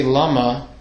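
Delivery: "lama" with the weight on LA; stress on first syllable. Shown as a demonstration.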